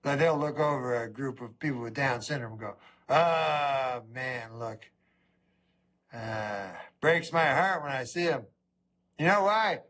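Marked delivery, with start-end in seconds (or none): 3.1-8.5 pitying. Retold or imitated. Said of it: "people pity".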